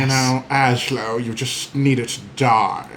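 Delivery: a slow, lightly voiced wicked queen; White Witch voice. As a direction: drawl it out like a cold witch. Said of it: "I want you to do her voice".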